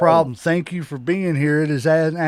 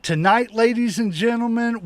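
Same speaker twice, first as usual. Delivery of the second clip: ringmaster; 4 semitones higher than usual. Acted. Announcer build-up.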